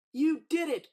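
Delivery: Timothy whooping at the flying elephant; joyful cry. Acted. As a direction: shout with triumph. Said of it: "cried Timothy".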